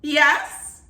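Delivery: loud, high, mocking duh; sassy duh. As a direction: toss it off like it's obvious. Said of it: "I'm like".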